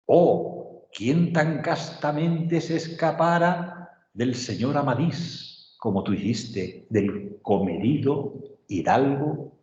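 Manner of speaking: slow, solemn reading of a sonnet; teacher reading a Cervantes sonnet aloud to the class, slow and declamatory; poem recitation. Acted. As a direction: recite it with measured pauses between lines.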